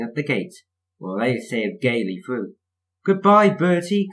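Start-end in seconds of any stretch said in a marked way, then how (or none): 3.0-4.1 high, loud, drawn-out call. A narrator's reading. Thomas passing Bertie at the gate, calling out. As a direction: call a slow, sing-out farewell. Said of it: "called Thomas".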